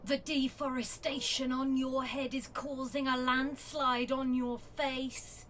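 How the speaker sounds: slow, deliberate poem recital; a wife reading her honest poems; poetry reading. Acted. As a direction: recite it like a spoken-word poet, taking your time. Reads her poetry aloud.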